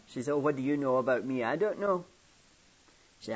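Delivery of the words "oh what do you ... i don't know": put-on loud, demanding little-girl voice; a child voice calling out, louder; curious child. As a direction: push for the secret like a nosy child. Girl demands to know the secret.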